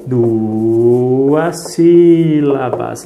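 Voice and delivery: "Duas sílabas" drawn out very slowly and loud; slow emphatic. Shown as a demonstration. Teacher stresses the answer for the child, very slowly. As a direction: stretch every syllable of "Duas sílabas". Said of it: "teaching, drawn out emphasis".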